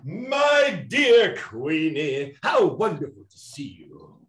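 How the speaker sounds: a villain's showy welcome; grand greeting. Acted. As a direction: greet her with theatrical delight. Greeting old rival grandly.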